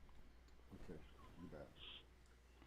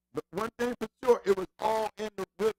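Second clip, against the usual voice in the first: getting carried away, higher-pitched; excited, raised voice; 4 semitones higher than usual. Real, not acted. Host reminiscing about two like-minded friends, excited and raised. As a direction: let real excitement lift the voice. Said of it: "I'm yelling and kinda get excited".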